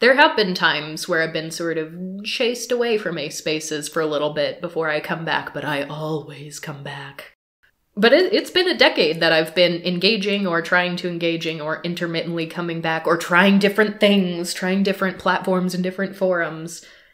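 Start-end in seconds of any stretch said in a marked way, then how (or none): 5.5-7.3 put-on voice, deep, slow, deliberate and drawn out. Talking about being chased away from ace spaces and returning, in a deep put-on voice. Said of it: "[deep voice]".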